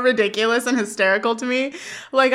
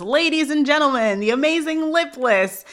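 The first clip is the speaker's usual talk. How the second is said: higher, lightly voiced emcee introduction; announcer; 5 semitones higher than usual. Party host presenting Corey in the hallway, mock announcer. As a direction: imitate a kid playing ringmaster. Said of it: "who was, like, running the party before says".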